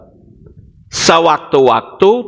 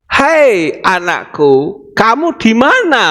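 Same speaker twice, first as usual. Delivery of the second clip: God calling; 5 semitones higher, slower than usual. Acted. God calling his child slowly, rising high. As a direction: call out slowly, then lift to a high ask. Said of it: "pertanyaan ini ditujukan kepada saudara".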